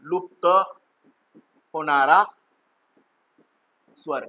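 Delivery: each word said alone with long pauses between; slow word-by-word dictation. Shown as a demonstration. Teacher making pupils repeat the term, slow and separated. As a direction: space the words out so pupils can repeat them. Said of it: "काय म्हणायचं याला?".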